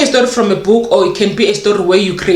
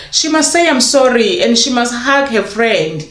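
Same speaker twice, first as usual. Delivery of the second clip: put-on light child voice; 2 semitones higher than usual. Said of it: "the child will say".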